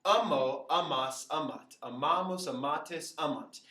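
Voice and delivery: rhythmic drill, first syllable of "Amo" punched; evenly chanted conjugation from "Amo" to "amant"; recited for listening. Shown as a demonstration. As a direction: stress "ma" in "Amamos" and "amatis". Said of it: "or even just listen to it".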